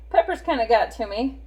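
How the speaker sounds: chuckling through the words; laughing. Real, not acted. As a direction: say it with a little laugh. Laughs off her sneeze.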